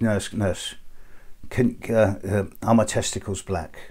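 quiet, half-asleep, sleepy mumbling. Telling a joke, a patient half asleep asks the nurse: imitating a sleepy mumble. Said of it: "he just mumbles in his sleep".

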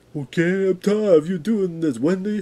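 high, angry, fed-up character yell. Voicing Mr. Matty as he keeps trying to talk to Wendy, imitating pissed-off Mr. Matty. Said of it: "I can't do the Mr. Matty character well".

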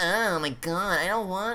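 high, clingy, possessive-sounding voice. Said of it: "makes me sound like I'm just some clingy asshole who's like".

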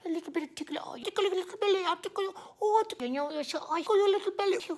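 put-on gooey, high, cutesy baby talk. Mocking couples who use baby talk in public, baby voice. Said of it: "couples who does baby voices in public".

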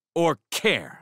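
sour, biting tone. Jack, jerking the door open to leave, answers Weiss, barking acidly. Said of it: "barked acidly back".

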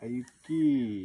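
pitch rises then falls on the long i. Pronunciation lesson isolating a long vowel, rise-fall on the long i. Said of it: "Up and down in that one vowel".

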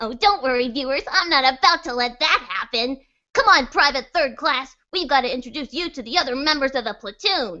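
very loud, high, cute scheming character voice. Voice actor playing a soldier who feels threatened by a rival, cute jealous voice. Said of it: "and he's kind of he's a little jealous of anyone who threatens his position, so he likes to be really close to the sergeant, and in this particular piece, he's being threatened, so he's not too happy. ... If you want to keep that same cute voice and have the juxtaposition of that against the situati".

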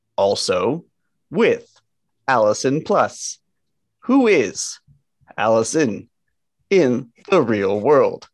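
robotic, computer-like delivery. Introducing a co-host on the show, in a robotic computer voice. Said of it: "We all talk like computers here".

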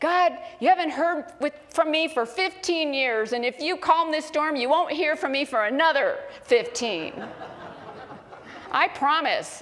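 mock mild yelling tone, high, hint of bellow. Speaker retells a man praying to God to calm a storm, in a loud, loud voice. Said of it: "in his loud, loud voice says".

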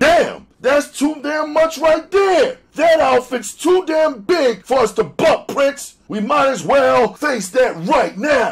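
very high, alarmed crying out. A gang boss answers his leader in front of the top men: exclaiming. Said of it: "Boss Game exclaimed".

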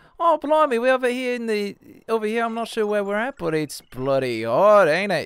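mock Australian accent. Demonstrating how the Australian accent sounds to them: put-on slowed Cockney-style accent. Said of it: "it sounds like the Cockney accent just got slowed down a bit".

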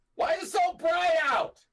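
shouting. A character describes always yelling from the moment they wake up: yelling. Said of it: "I'm always yelling from the moment I wake up".

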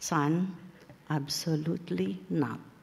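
soft, very low, hushed half-whisper. A mother recounts answering her son's request, retelling a low half-whisper. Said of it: "I whispered to him in a very low voice".

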